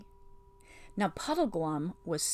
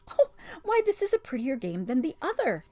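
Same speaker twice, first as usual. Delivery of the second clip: a higher, louder cry of delight; mock delight; 7 semitones higher, 4 dB louder than usual. Witch feigning delight at Jill's game. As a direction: pretend to be charmed.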